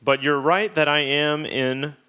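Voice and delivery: ordinary delivery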